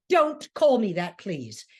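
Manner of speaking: a touch of defensive pleading; lightly voiced wounded protest. Lenny wincing as Ruth uses his name, mildly defensive. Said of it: "incredibly defensive and says".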